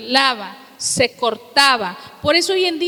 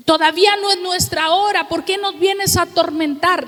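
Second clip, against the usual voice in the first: demons shouting; 4 semitones higher than usual. Retold or imitated. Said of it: "como los que gritaban en Mateo".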